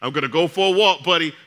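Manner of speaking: breezy hospital-neighbour greeting, only lightly put on; lightly voiced Kevin. Roommate Kevin calls out to the pastor while walking past, lightly voiced and cheery. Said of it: "So he's like".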